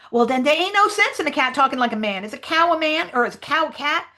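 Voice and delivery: high, argumentative dialect character; Jim. Acted. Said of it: "try to sort of read the Jim lines".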